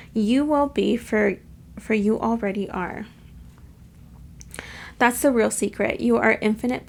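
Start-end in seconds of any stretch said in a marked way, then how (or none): 0.1-3.1 slow, sincere affirmation. Shown as a demonstration. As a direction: speak it as a gentle mantra. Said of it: "Let's do that affirmation".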